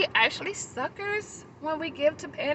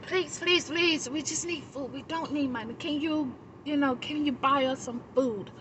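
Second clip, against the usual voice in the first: mock begging, easing down toward usual pitch; pleading; 2 semitones higher, 5 dB quieter than usual. Panhandler begging the speaker for food, imitated pleading.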